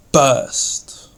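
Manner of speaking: explosive, half-whispered BURST; word-painting. Shown as a demonstration. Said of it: "bring out the meaning of the word by its sound".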